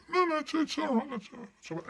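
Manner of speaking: high rushed no, fading to a mumble; boy hiding the broken watch, flustered; panicky denial. Acted. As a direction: protest then lose nerve.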